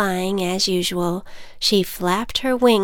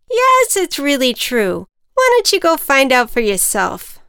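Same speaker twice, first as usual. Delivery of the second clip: higher, louder encouraging ant; 6 semitones higher, 6 dB louder than usual. Acted. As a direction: nudge her to go. Ant character voice.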